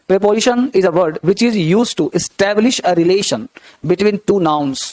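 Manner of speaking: very slow, word by word dictation. Shown as a demonstration. Teacher dictates a definition to students, very slow. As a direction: spell it out slowly so they can write. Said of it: "dictating the definition".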